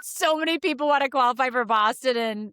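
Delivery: high, holding back laughter; stifled giggles. Real, not acted. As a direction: talk through suppressed giggles. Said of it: "I'm trying not to laugh".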